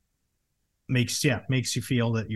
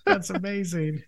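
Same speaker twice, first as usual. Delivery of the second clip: excited cheer; 12 semitones higher, 4 dB louder, much slower than usual. Real, not acted. Cheering a wedding gift.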